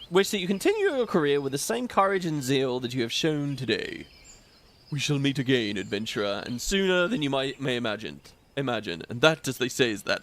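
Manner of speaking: lightly voiced old man, nearly plain; a half-hearted old mentor voice; Macon voice. Streamer reading the NPC as Macon, a faint old man voice. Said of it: "I'm gonna do a Macon voice".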